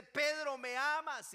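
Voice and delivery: high, loud call to Pedro; calling question. Acted. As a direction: call out to him, searching. (el Señor llamando fuerte a Pedro)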